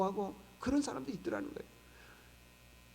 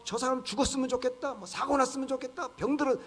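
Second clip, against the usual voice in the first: acted angry wishing; 5 semitones higher than usual. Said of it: "막 분노하고 화내고".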